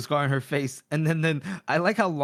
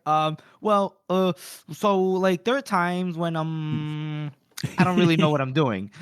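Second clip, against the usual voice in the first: halting mock reply full of ums and drawn-out words; hesitant stalling; slower than usual. Logan fumbling to answer his companions, hesitant and stalling. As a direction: stall awkwardly between filler words.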